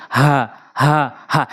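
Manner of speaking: হা as an easy h from the start of the throat; normal throat ha. Shown as a demonstration. Teacher drills learners, plain easy হা from the throat. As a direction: breathe each হা out simply, unforced. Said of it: "হলকের শুরু থেকে একদম normally".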